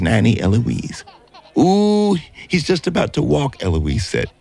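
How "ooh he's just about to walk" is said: excited. A narrator's reading. Nanny thrilled by baby.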